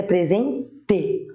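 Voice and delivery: "presente" slowed, split before a clear TE; careful "pre-ZEN... TE"; final E. Shown as a demonstration. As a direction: end "presente" on a full E, as written. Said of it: "com E".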